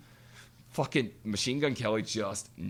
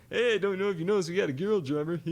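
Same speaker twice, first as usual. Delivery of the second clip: mock stage banter of a singer, higher, louder and quick; hammed-up rock frontman working the crowd; imitating the singer live; 9 semitones higher, 5 dB louder, faster than usual. Quoting the singer to the concert crowd, higher and louder. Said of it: "Like only Vinny can".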